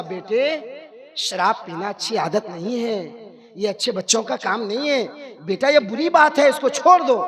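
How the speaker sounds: hint of a loving father, gently coaxing; प्यार से समझाते पिता. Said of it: "प्यार से समझा". (प्यार से, नरमी से समझाते हुए)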